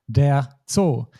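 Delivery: der Zoo said with a clear O, not an English U; German Zoo with O. Shown as a demonstration. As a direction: keep the O in Zoo pure. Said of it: "we just keep pronouncing it as O".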